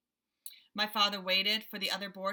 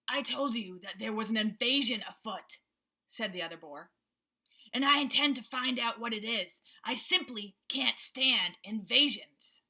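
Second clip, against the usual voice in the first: a touch louder, stern boar; suspicious boar; 3 dB louder than usual. Acted. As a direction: boar vowing to find the invaders.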